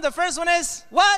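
high, rousing question to a crowd; calling to the audience. Real, not acted. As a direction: prompt the crowd to answer. Calls to audience for responses.

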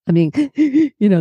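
laughing. Real, not acted. Laughing about her own sobbing.

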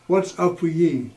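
put-on broad Yorkshire accent, lightly done. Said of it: "In a very broad Yorkshire accent".

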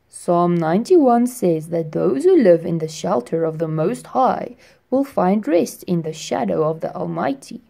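put-on firefly greeting the boy at his window; friendly firefly. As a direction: greet him like a gentle old friend. Firefly quotes psalm.

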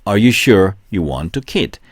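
very slow, each word spaced for repeating; deliberate slow model sentence, question lifted at the end; slow drill reading. Shown as a demonstration. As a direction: read it slowly so students can follow. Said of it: "그만두고 싶은 게 확실하니?".

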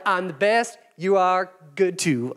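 smug improv. Acted. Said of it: "enough improv".

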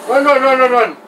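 high, loud chanted chase cry; excited yelling. Real, not acted. Gamer chasing enemies in the game, high excited yell. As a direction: shout them off as they flee.

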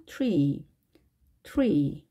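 트리 as English tree, T sliding into curled R; in-between TR. Shown as a demonstration. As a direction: onset of 트리 between T and "ch". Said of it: "중간에 어떤 소리처럼 들릴 것입니다".

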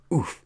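short, high "oof"; strained little grunt; effort grunt. A narrator's reading. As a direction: let out a quick oof of effort. Character straining to pop balloon.

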